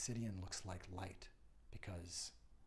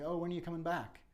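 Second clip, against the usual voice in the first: higher, louder worried call after him; anxious plea; 9 semitones higher, 8 dB louder, faster than usual. Retold or imitated. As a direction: plead to know when he returns. Worried family calling to him.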